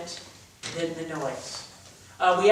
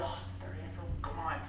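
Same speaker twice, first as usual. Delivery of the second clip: mock whine; 3 semitones lower, 13 dB quieter, faster than usual. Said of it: "I know you're like".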